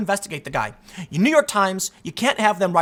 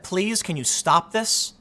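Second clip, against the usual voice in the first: slow, softer pleading ask; a gentle imitated appeal, drawn out; mock plea; 4 dB quieter, slower than usual. Moderates begging Democrats to stop, soft slow plea.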